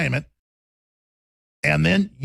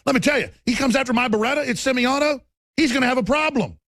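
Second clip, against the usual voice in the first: higher, fast, building to a shout; mock tough-guy shout; 7 semitones higher than usual. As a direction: bluster like a tough guy daring someone. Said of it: "That's a quote, Joe Biden".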